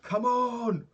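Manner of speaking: rally yourself with a big shout; mock battle cry. To his training partner, a roaring pep-up shout. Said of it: "I was like".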